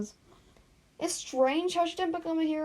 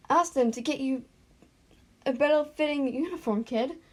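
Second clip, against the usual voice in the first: put-on louder, exasperated teacher scolding a kid; stern teacher; 4 dB louder than usual. Counsellor telling Izuku to get a better uniform, exasperated. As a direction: finish the lecture, fed up.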